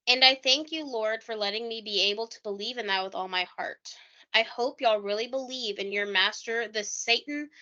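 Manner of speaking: a lightly put-on voice of a grieving father reciting scripture; imitating John Mark Byers. Podcaster acts out a bereaved father's soliloquy for her cohost, lightly voiced. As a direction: read it as his soliloquy, only lightly voiced. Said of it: "That's exactly how he said it".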